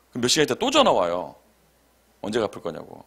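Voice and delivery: ordinary talk, nothing marked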